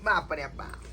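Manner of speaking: very low, quiet mutter; muttered dismay. Acted. Host reacts to his demanding guest, muttering low in dismay. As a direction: mutter it under your breath in dismay.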